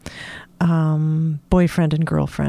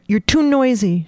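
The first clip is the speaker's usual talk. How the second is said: snapped; 4 semitones higher than usual. Acted. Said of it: "she snapped".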